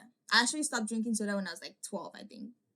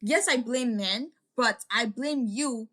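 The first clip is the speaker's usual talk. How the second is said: slow, louder, every word pressed; angry blame; 3 semitones higher, 5 dB louder, much slower than usual. Retold or imitated. Telling the fake friend off, slow and firm. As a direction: lay the blame on her slowly. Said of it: "I was so mad at her".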